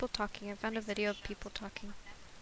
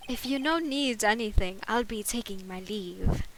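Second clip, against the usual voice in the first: put-on amateur British accent for a bellboy; formal leave-taking in a hammed-up British accent; attempted British accent; 5 dB louder than usual. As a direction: have an unsure go at a British accent. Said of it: "try and give him a British accent".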